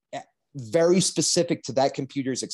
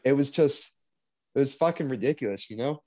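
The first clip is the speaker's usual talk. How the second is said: voice catching with grief; 3 semitones higher than usual. Real, not acted. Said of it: "I'm getting emotional".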